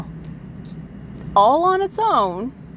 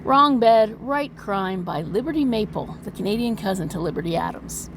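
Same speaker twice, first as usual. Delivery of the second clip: dramatic title read. Acted. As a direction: open like a trailer voice. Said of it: "dramatic reading".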